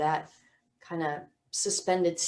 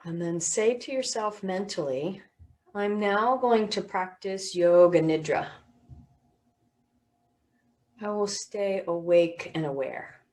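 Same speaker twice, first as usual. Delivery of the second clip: unhurried yoga nidra guiding voice; guided meditation. Real, not acted. Teacher settling listeners for yoga nidra, guided meditation voice. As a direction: settle them gently, with long pauses.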